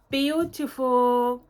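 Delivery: Beautiful drawn out slowly, each syllable lingered on; slow savoured beautiful. Shown as a demonstration. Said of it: "the box is just beautiful".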